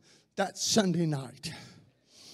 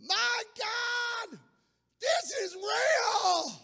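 high, loud crying shout; retold scream; 3 dB louder, much slower than usual. Mister Jenkins jumping up at the altar, crying out loud. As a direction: cry it out in sudden awe. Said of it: "and screamed".

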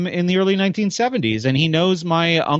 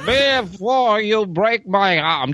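mock shout; 5 semitones higher, slower than usual.

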